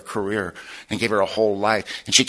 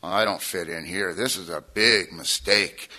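softer, slow, muttered worry; a quiet, slow aside of regret; nervous inner thought; 6 semitones lower, 9 dB quieter, slower than usual. Retold or imitated. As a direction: mumble it to yourself, uneasy. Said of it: "and I'm going".

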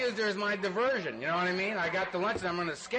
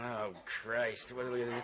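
worried mother; 7 semitones lower, 5 dB quieter than usual. Retold or imitated. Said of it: "wringing her hands going".

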